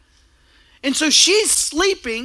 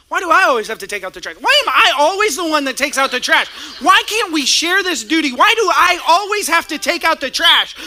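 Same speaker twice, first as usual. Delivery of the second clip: exasperated rant; 2 semitones higher than usual. Acted. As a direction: vent the frustration harder with each question. Acted quarrel over the trash.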